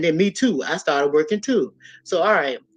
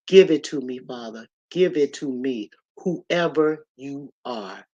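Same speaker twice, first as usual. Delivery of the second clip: slow earnest prayer. Retold or imitated. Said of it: "I said".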